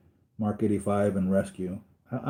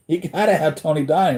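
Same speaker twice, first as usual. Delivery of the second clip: laughing; 5 semitones higher, 4 dB louder than usual. Shown as a demonstration. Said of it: "And that's not funny".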